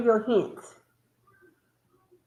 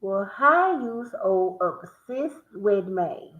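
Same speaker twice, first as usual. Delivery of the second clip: sound it out; slower than usual. Shown as a demonstration. Trying the puzzle again, slowly. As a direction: still slow, word by word. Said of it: "Say it faster".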